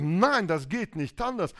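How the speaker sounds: mildly heated refusal. Acted. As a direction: push the pitch up in protest. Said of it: "mein Kampf schon höhere Töne nimmt".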